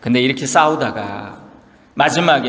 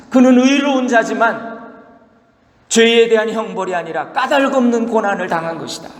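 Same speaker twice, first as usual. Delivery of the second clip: God's verdict; 4 semitones higher than usual. Retold or imitated. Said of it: "하나님의 말씀은 이것입니다".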